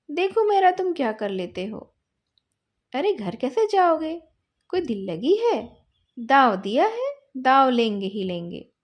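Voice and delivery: stamp down your claim on the turn; boy loudly demanding his turn in the game; angry insistence. Acted. Boys quarrel over the game.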